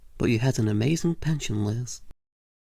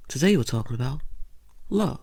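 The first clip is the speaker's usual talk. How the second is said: hosty announcement. Acted. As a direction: sell the topic like a game show host. Talk show host opener.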